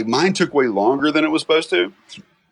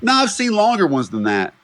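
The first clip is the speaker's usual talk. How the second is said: dismissive dentist; 6 semitones higher than usual. Retold or imitated. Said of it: "she goes".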